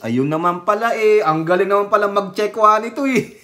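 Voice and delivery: ordinary talk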